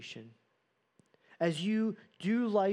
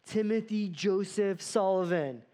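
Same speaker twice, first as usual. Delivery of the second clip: scolding mom calling out; 2 semitones higher, 4 dB louder than usual. Retold or imitated. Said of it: "my mom would use my full name".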